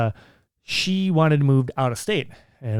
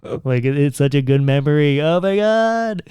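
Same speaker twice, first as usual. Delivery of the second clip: real emotion breaking through; getting emotional; 5 dB louder than usual. Real, not acted. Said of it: "I'm actually kinda getting a little bit emotional".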